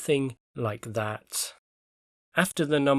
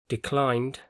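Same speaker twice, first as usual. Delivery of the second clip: declined said de-CLINED; stress on second syllable. Shown as a demonstration. Teacher shows students an exception, declined stressed on the second syllable. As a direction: put the weight on -clined in declined. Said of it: "stress is on the second syllable in both".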